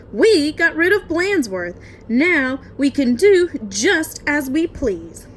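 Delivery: loud, gleeful cheer; gleeful kids. Acted. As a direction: crow about getting rid of him. Class celebrates teacher gone.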